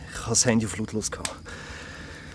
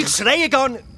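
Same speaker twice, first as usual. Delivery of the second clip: higher and louder, yelling that he isn't yelling; shouting denial; 12 semitones higher, 4 dB louder than usual. Acted. Friend says he's yelling, Phil shouts his denial. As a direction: bark the denial right back at her. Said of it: "weil du so grundlos übertrieben rumschreist".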